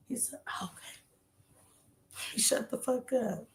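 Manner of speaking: hushed, telling it under her breath; whispered retelling. Real, not acted. To the camera at the back of the bus, whispering. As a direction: keep it in a whisper.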